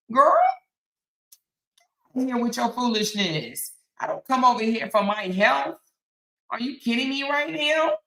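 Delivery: high, incredulous comeback; scoffing disbelief, questions lifting high; indignant retort. Real, not acted. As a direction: protest as if it's absurd. Indignant retort to money accusation.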